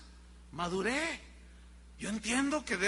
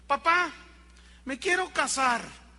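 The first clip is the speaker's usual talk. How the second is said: niño agudo y fuerte, anuncio ilusionado; anúnciale al papá como niño emocionado; niño entusiasmado; 5 semitones higher, 4 dB louder than usual. Retold or imitated. Niño anuncia que se casa. (niño pequeño, voz alta y aguda)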